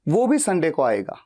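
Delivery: वो भी leaned on; stress on वो भी. Shown as a demonstration. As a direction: lean on वो भी. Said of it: "उस व्यक्ति पे फोकस है".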